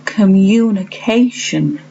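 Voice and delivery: communication said slowly, syllable by syllable; slow teaching take of communication; model word, slow. Shown as a demonstration. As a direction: draw communication out for the class. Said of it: "which has got three syllables".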